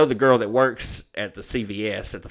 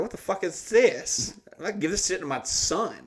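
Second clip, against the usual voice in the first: higher-pitched retold griping, not shouted; pissed off; 4 semitones higher than usual. Man retelling his complaint about five milligram pills, pissed off. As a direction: complain in mock outrage. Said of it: "then I was pissed".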